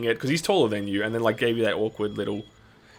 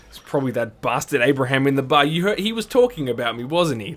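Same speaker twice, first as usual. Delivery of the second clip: annoyed; 3 semitones higher, 5 dB louder than usual. Acted. Player voices suspicious shopkeeper.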